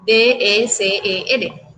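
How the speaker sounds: letters D E C E R said one by one, slow; spelled out slowly. Shown as a demonstration. Teacher spells the rhyme ending for students, slow. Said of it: "termina exactamente en lo mismo".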